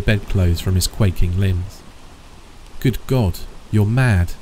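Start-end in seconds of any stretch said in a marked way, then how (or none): 2.8-4.3 aghast. Acted. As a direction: recoil in horror as you say it. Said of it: "he cried aghast".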